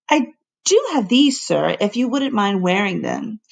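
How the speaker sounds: shy housekeeper. Acted. Housekeeper shyly offers garters.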